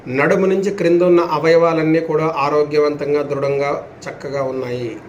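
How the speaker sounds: measured affirmations with long falling endings; steady, unhurried relaxation guidance; guided yoga nidra. Acted. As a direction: intone it for listeners to follow, drawing out the last word.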